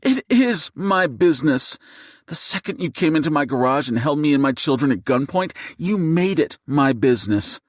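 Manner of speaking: high-pitched indignant fury; heated retort. A narrator's reading. Mother tells gunman this is her business, furious. Wife argues back at gunman.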